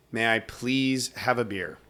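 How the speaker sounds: slow, over-careful polite ask; exaggerated politeness. Asking his friend for a beer, overly polite. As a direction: lay the courtesy on thick. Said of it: "You fucking sure can".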